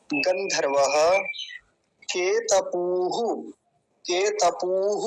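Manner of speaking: गंधर्वः केतपूः drawn out slowly with a long ऊ; careful Sanskrit recitation. Shown as a demonstration. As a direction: chant each syllable slowly. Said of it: "लंबा खींचेंगे".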